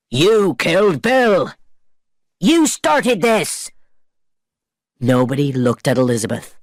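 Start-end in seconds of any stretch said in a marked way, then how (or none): 0.1-3.7 higher, slow accusing pirate cry; angry calling out. A narrator's reading. Pirates calling out at Barbosa, high slow accusation. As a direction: hurl the blame at him. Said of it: "They called to Barbosa".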